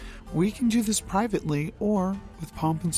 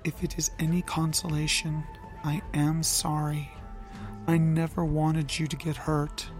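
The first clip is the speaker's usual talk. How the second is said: lower, softened apology. Acted. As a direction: speak low and gentle. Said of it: "Loki's voice was low".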